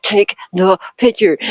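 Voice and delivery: slow, forced words through a smile; woman yelling at her man while smiling for the camera; smiling through anger. Retold or imitated. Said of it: "I'm like".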